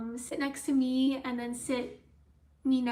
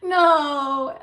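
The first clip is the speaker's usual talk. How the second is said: laughing disbelief; 9 dB louder than usual. Real, not acted. Disbelief at stranger's offer.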